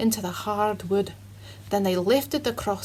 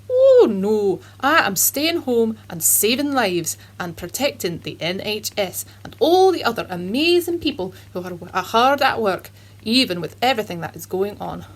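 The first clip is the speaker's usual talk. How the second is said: put-on Scottish accent; 3 dB louder than usual. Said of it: "Scotch Jeremy".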